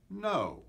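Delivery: a bright, emphatic high "no"; "no" pitched well up. Shown as a demonstration. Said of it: "Say it in all the different ways you want to say it".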